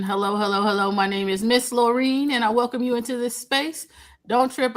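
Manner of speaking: a bit hoarse from a cold; hoarse, frog in the throat. Real, not acted. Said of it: "I probably sound like I got a frog in my voice".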